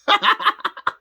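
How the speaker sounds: shrieking laugh; high loud laugh. Real, not acted. Laugh heard.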